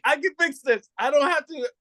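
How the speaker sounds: high, rushed panic, talking himself into it; pleading with himself that it's fixable; frantic self-talk. Retold or imitated.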